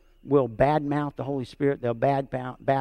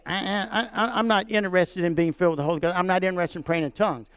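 mock dismissive believer; 3 semitones higher, faster than usual. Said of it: "we can say".

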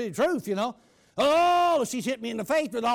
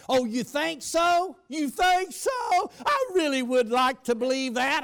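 doubtful mother; 3 semitones higher, 3 dB louder, slower than usual. Retold or imitated. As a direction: question him like a skeptical mom. Mother doubting son's parole hopes.

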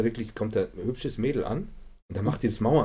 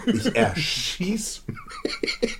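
whispered; 11 semitones higher, much slower than usual. Retold or imitated. Retold panicked thought in snow.

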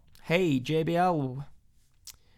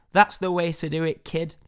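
louder, lightly faked boss voice; a hint of the hammed-up wrestling boss, louder; Vince McMahon; 3 semitones higher, 6 dB louder than usual. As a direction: call it out as a bad promoter impersonation. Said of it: "that's bad Vince McMahon accent".

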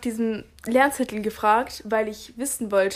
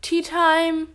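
announcer voice; 6 semitones higher, 4 dB louder than usual. Pretend. Announcing segment title.

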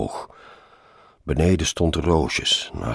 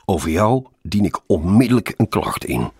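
raised, louder threat; angry shout; 5 semitones higher, 6 dB louder than usual. A narrator's reading. Colleague threatening his passenger over the car's racket, shouting. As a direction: shout it over engine noise. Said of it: "schreeuwde Roosjes door het lawaai".

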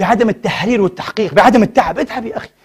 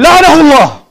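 put-on a mildly raised, higher curse, as if the old sheikh were crying; retold tearful curse; 6 semitones higher, 5 dB louder than usual. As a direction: voice the scholar's pained outburst, half acted. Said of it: "وهو يبكي".

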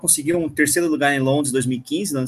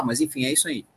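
trailing off; 8 dB quieter than usual. Real, not acted. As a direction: voice fading out after losing the thread. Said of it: "eu até esqueci o que eu ia falar".

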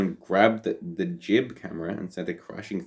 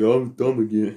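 put-on Rust Belt accent; 3 semitones higher, 5 dB louder than usual. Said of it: "was that your hillbilly Rust Belt accent?".

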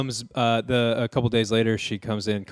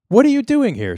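mock surprise; 12 semitones higher, 7 dB louder than usual. Startled host confronts guest.

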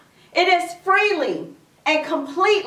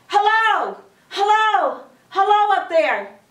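mock scream; 4 semitones higher than usual. Stranded Jack calling up the cliff, mild mock scream. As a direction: call up high with falling endings. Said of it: "So he began to scream".

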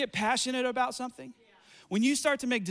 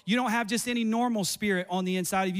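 ordinary talk, nothing marked

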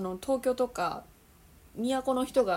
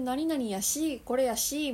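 Osaka yashi; 4 semitones higher, 4 dB louder than usual. Shown as a demonstration. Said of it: "大阪で言う".

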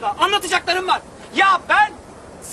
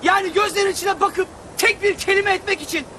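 shouted declaration. Acted. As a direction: shout your love across the street. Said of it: "Ne bağırıp duruyorsun?". (sokak ortasında bağırarak aşk ilanı)

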